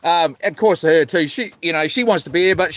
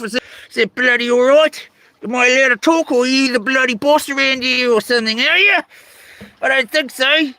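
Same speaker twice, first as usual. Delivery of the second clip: mock annoyed; 4 semitones higher than usual. Mock-annoyed rant at chat.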